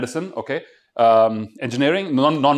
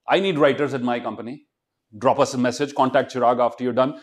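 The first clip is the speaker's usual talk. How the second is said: ordinary delivery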